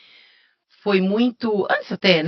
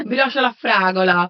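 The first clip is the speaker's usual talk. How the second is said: slow, relished Italian accent; 4 dB louder, slower than usual. Shown as a demonstration. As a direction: savour the Italian words slowly. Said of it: "Com sotaque italiano".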